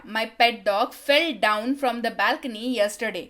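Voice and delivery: slow and clear, word by word; slow model sentence. Shown as a demonstration. Teacher reads the English line slowly for Hindi students. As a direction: spell it out slowly for learners. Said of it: "teacher models the English sentence".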